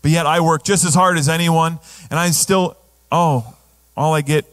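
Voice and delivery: a hint of a self-pitying believer; mildly whiny woe-is-me voice; whiny complainer. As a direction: grumble like the put-upon older brother. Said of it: "the young goat mentality".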